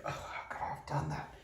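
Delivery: near-whispered, very soft self-scolding; hushed self-reproach. Acted. Someone who did something goofy scolding themselves, hushed self-reproach. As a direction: berate yourself under your breath.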